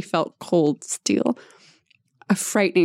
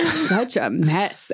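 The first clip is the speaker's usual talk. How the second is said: gentle scolding; slower than usual. Acted. Adam tenderly scolding the injured Belinda, slow and gentle. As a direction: chide her tenderly, drawn out. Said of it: "Adam scolded gently".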